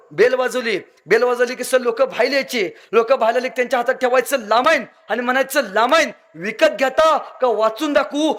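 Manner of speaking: put-on the boy says "लामाईन" and "दालात" with an L in place of R; cheeky kid lisping his R sounds as L, slowing down on the quoted question; बोबडं बोलणं, र चा ल करून. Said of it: "बोबडं बोलणं".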